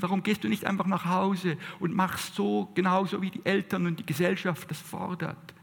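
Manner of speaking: a hint of a belittling little voice; nagging inner critic. Preacher voicing the inner critic taunting the listener, lightly mocking. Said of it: "Diese kleine Stimme, die uns sagt".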